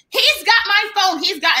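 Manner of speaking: high, whiny accusation; mock drunk woman. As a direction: mimic a drunk woman insisting they took her phone.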